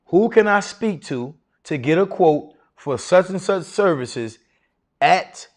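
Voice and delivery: slow and assured phone request; steady, unhurried authority; confident, authoritative. Shown as a demonstration. Teacher repeating the phone line for the class, calm authority. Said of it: "confidence and authority".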